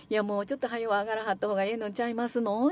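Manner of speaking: quick, silky Kyoto courtesy; a shopkeeper politely hinting it is time to leave. Retold or imitated. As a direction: nudge the guest out while sounding gracious. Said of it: "お客さんを絶対怒らさへんように".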